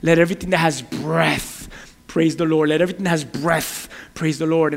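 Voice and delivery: "breath" held long, then a small break; emphasize "breath" each time it comes; stress on breath. Retold or imitated. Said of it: "there was an emphasis on the word breath".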